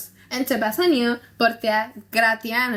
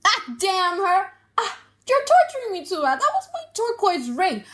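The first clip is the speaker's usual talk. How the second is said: anguished curse; 8 semitones higher than usual. Acted. Shylock learning his daughter traded his ring, high anguished outcry. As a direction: cry out as if wounded.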